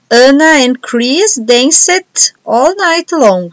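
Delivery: very slow, word-by-word dictation read. Shown as a demonstration. Teacher dictating the sentence to students, very slowly. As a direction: dictate it slowly so everyone can write.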